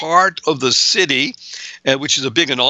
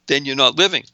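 normal talking voice

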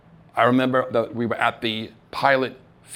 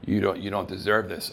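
doubting inner voice; 3 semitones lower, 5 dB quieter than usual. Retold or imitated. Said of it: "that little voice in the head came out".

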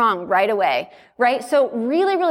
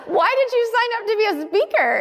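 incredulous question; 11 semitones higher, faster than usual. Retold or imitated.

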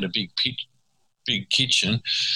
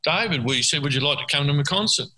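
imitation of a singer; 3 semitones higher than usual. Retold or imitated. Singer calling to David at the after party, mild retold yell. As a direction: imitate someone calling out, pitched up. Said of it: "and Robert Plant yells out".

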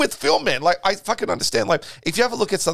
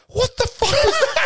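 laughing disbelief. Retold or imitated. Retold shock at bizarre comic.

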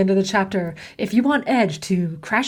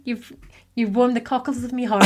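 terrible mock British accent, barely put on; a clumsy stab at a British accent, half joking; bad British accent; 4 dB quieter than usual. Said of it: "was that you putting on a British accent? 'Cause that was terrible".

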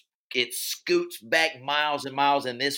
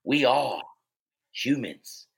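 Morgan Freeman; 4 semitones lower than usual. Acted. Rallying the humans left on the world, mock-solemn rousing speech. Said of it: "Morgan Freeman gives this rousing speech".

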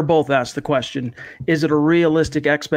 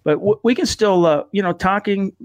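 numb from the dentist. Real, not acted. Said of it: "I can't quite enunciate the way I would like to".

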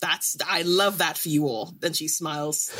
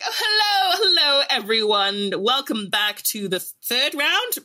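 announcer character; 4 semitones higher, 3 dB louder than usual. Acted. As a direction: greet the crowd like a cheesy arena host. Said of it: "this is one of my characters".

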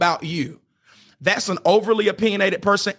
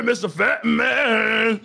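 mock taunt; 5 semitones higher, much slower than usual. Shown as a demonstration. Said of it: "I'm sarcastic with myself".

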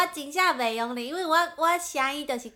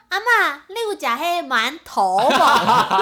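Taiwanese-accented Mandarin; 7 dB louder, slower than usual. Shown as a demonstration. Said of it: "我都会用台湾国语念吗".

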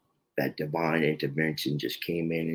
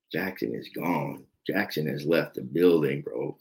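lower, softer and slow, drained of energy; defeated self-talk; 3 semitones lower, 3 dB quieter than usual. Retold or imitated. To himself in the bathroom mirror: low, soft, hollow. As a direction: say it like he no longer knows himself.

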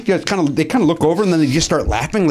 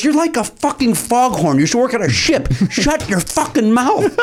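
high, slow mock telling-off; a rock star; 7 semitones higher than usual. Rock star silencing a fan who yells again, imitated angry rant. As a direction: berate the heckler deliberately, pitched up. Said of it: "and he goes".

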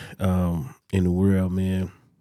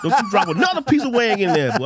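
retold police order; 11 semitones higher than usual. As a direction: bark the order like a cop. Police ordering the cook around.

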